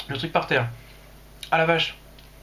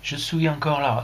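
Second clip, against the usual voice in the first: put-on lightly English-accented French, a little slow; a hint of English accent; slower than usual. Streamer explaining Jean-Daniel's message, light English accent. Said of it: "C'est un Anglais".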